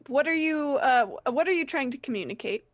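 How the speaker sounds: puzzled half-whispered ask; a hint of a puzzled guard; mock hushed question. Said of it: "wave the paper in front of his face".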